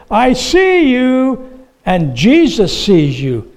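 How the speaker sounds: lightly voiced slow parrot; a hint of a talking bird, drawn out; slow high parrot echo. A narrator's reading. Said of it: "he heard this voice again".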